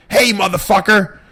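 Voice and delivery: high, loud drawn-out mock scream; screaming neighbor. Neighbor pulling up at his driveway, screaming. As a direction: imitate an irate neighbor yelling from the road. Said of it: "starts screaming".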